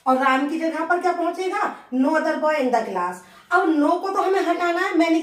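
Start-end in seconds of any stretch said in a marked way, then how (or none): 1.9-3.1 slow and even; slow dictation. Shown as a demonstration. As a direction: read it aloud for students to note. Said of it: "teacher dictates phrase". (धीरे-धीरे बोलना)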